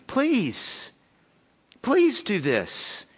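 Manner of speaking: slow, sincere plea stretched out on please; pleading. Real, not acted. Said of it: "I beg you".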